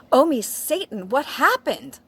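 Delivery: high, loud mock scream; hammed-up horrified outcry. A narrator's reading. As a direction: shriek it in exaggerated melodrama. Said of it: "I screamed".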